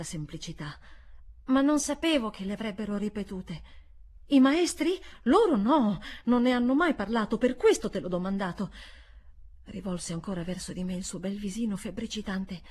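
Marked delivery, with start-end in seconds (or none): 4.3-8.7 put-on boy's voice. Miles answering governess.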